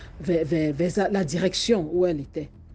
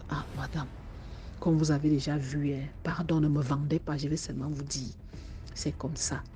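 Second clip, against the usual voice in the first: low confiding; 3 semitones lower, 6 dB quieter than usual. Acted. Guard quietly confides.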